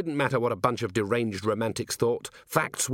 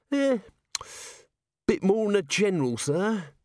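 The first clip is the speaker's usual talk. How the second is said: higher, hesitant, nervous little corporal; raised wheedling voice, full of ums; Nobby; 10 semitones higher than usual. A narrator's reading. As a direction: stammer it out like a nervous underling. Nobby hedging.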